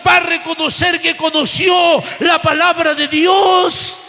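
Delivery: insistent preacher pressing on phrase after phrase; forceful church sermon delivery; impassioned preaching. Real, not acted. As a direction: preach with fervent, driving conviction.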